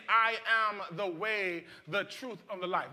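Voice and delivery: each phrase spoken slowly, weighed word by word; slow and deliberate. Shown as a demonstration. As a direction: let every word of the quote sink in. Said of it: "Jesus is saying".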